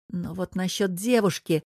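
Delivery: plain reading voice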